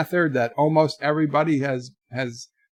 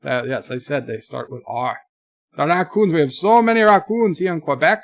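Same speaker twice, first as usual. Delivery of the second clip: mock Canadian accent. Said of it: "I can also pretend to be a French noofy".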